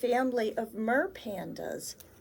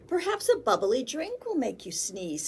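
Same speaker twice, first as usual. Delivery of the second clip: hopeful seller; 2 semitones higher, 3 dB louder than usual. Acted. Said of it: "said the ice cream seller".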